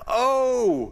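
high, loud cry of dismay; cried out. Acted. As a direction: Gideon crying out in shock. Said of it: "he cried out".

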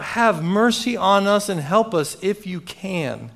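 acting a father crying out for help; yelled plea. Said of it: "And then he yells out".

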